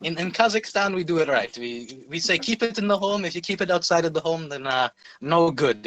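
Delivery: lightly put-on mock-Kazakh accent; Borat. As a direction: slip back into a comic Kazakh accent. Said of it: "like, the Borat accent".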